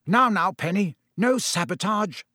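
cheerful big-brother teasing; hearty. A narrator's reading. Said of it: "said Percy heartily".

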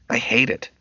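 put-on a touch of a sulking teen; emotional girl. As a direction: daughter refusing the restaurant, mildly emotional. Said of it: "Becky said with emotion".

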